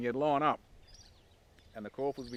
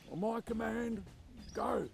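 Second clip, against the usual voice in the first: mock starting command; 11 semitones higher, slower than usual. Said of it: "the P T O would turn around and go".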